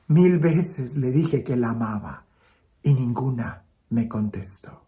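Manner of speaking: understated grief, trailing toward a whisper; tearful, sighing child. Acted. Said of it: "la niña entre lágrimas y suspiros le dice".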